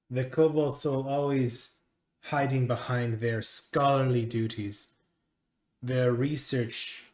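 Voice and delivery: measured speech with a touch of contempt; deliberate, pausing list of grievances; lightly voiced disdainful master. Master dismisses a rival group's scholarship, lightly disdainful.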